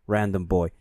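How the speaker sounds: usual speaking voice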